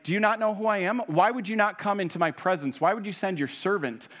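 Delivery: insulted that the prophet won't come out himself; a proud commander complaining about the servant, affronted; offended pride. Retold or imitated. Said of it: "And, and what, like".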